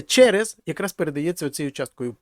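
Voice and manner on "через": "через" said higher and louder, falling; emphasized word. Shown as a demonstration. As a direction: lean on "через". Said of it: "І це".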